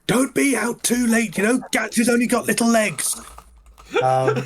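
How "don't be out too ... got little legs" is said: goblin mother calling out. Acted. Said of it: "a woman's voice from inside, um, shout".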